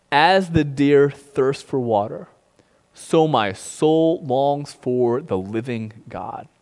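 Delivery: slow, measured psalm reading; scripture reading. Acted. Pastor reciting the psalm to online congregation, slow and measured. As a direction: read the verse slowly like scripture.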